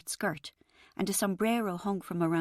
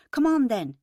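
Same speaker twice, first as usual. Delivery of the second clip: eager, louder invitation; bright keen come-on, pushing on; 6 semitones higher, 8 dB louder than usual. A narrator's reading. Chris urging Rachel into the loud shed, eager. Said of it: "he said eagerly".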